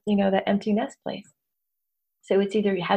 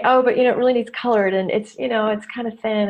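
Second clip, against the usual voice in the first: dismissive self-deprecation. Retold or imitated. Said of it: "I could say".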